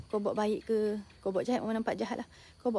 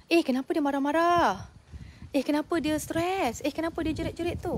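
judgmental onlookers; 5 semitones higher than usual. Retold or imitated. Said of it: "Orang hanya fikir direct".

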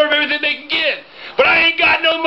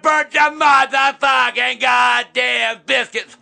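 angry slow shouting; slower than usual. Real, not acted. Heated family argument.

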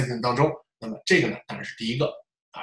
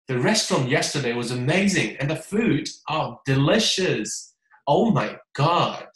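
slow, savoring delight on delicious; mean every word, relish the food; expressive natural stress; slower than usual. Shown as a demonstration. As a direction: enthusiastic natural reading. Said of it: "是这种感觉".

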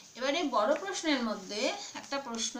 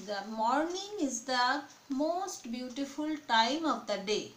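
slow, measured read-aloud with pauses between phrases; teacher's drawn-out dictation; much slower than usual. Real, not acted. Reads out model answer.

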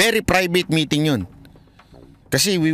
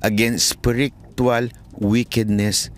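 scripture recitation; slower than usual. Acted. Reciting Ephesians verse slowly.

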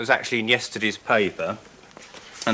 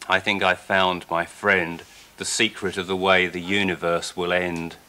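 steady, rhythmic comic verse reading; poem recital; slower than usual. Acted. Poet reads his dog poem to the woman, in rhythmic recital.

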